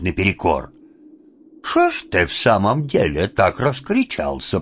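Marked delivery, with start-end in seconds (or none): 1.7-4.6 same disguised voice. Acted. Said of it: "произнёс он тем же голосом".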